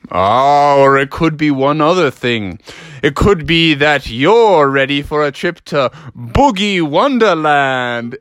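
a hint of grand reveal, slowing at the end; lightly playful father, stretched ending; lightly voiced teasing dad. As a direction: draw out the last word like a dad's announcement.

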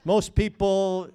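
mock-generous Peter haggling, rising to a laughing high shout; Peter bargaining. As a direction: play Peter bargaining like a market trader, then crack up. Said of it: "Peter came to Jesus and asked".

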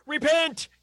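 sudden loud sermon shout; shouted repent. Acted. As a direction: bellow it like a fire and brimstone preacher. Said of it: "my head pops out and it's like".

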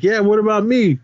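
high-pitched indignant imitation; mock indignation. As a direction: imitate an aggrieved demand, pitched well up. Retold workers demanding their money.

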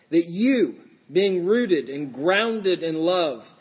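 measured, projected Bible reading; scripture reading. Acted. Pastor reads Paul's words to the congregation, scripture reading. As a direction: read it out firmly to the congregation.

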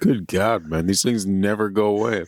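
chewing while talking; words round sticky candy; mouth full. Real, not acted. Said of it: "can you chew faster".

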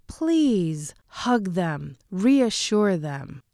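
slow, sincere plea with please drawn out; heartfelt slow appeal to parents; earnest plea. Real, not acted. Pleading with parents.

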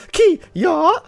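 high, loud martial-arts yell; play-fight punch cry, sharp and high; karate battle cry. Pretend. Acting out first punch in fight.

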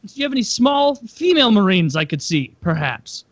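high, mock-disappointed female fighter; mock bored fighter. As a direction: pitch it up, hammed-up letdown. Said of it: "It's like".

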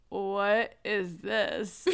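very slow, drawn-out mock bafflement; baffled kid. Imitating son hearing the song in the bath, baffled. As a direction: stretch each word like a puzzled child.

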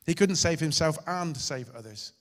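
insisting He couldn't save himself; emphatic declaration. Shown as a demonstration. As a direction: proclaim it to the congregation. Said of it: "That was the point".

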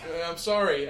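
breathless apology after separating the pets; coming back from holding down a pet; breaking up pets. Real, not acted. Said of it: "I had to break him up a little bit".

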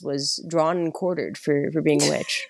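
lightly voiced, even-toned tour guide; measured guide patter with reassuring authority; calm tour guide. Guide walking tourists through witch trials, calm and even. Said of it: "really calming voices".

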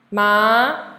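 rising "ma"; second tone. Shown as a demonstration. Teacher running through four tones on one sound, "ma" rising. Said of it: "Now, M A".

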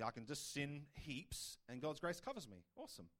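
playing the careless believer, then a dropped awesome; sarcastic mock take on easy grace; lightly mocking tone, trailing off into a flat awesome; mock flippant. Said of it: "No, that's not what it's saying".

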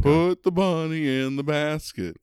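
imitating the Con Air hero's Southern accent to tease a friend; Cameron Poe impression. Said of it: "Cameron Poe talks like this".

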